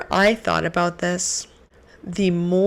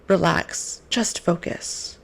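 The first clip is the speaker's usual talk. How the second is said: slow and hushed, fading to a breath; a soft, soothing whisper; calm soft divine voice; slower than usual. Retold or imitated. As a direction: gently reassure. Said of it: "God talks in a very calm, soft tone".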